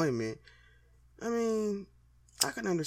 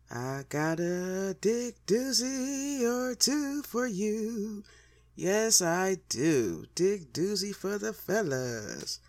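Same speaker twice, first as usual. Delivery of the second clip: teasing announcement; 5 semitones higher, much slower than usual. Acted. Teasing a story to the fellas.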